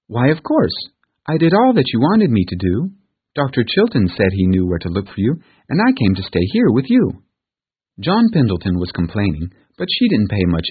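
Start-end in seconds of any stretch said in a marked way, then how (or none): 0.1-7.0 put-on higher, eager girl's voice; proud child reporting back; cheerful little girl. Pollyanna answers Pendleton.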